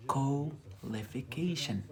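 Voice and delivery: qualification stretched slowly, each syllable drawn out; slow model word. Shown as a demonstration. Teacher repeating qualification slowly for students. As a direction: say qualification slowly for learners to copy. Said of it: "is this word".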